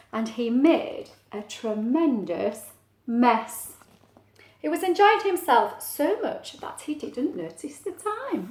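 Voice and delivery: measured, lilting picture-book reading; story narration. Acted. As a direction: draw out key words for small children. Reads story aloud.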